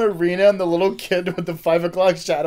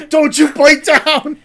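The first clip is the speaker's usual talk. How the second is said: loud, drawn-out command; slow loud order; 8 semitones higher, 12 dB louder, slower than usual. Retold or imitated. Ordering the kid not to bite the pill, slow and loud. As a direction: stretch out each word as a warning. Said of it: "kid bites cyanide pill".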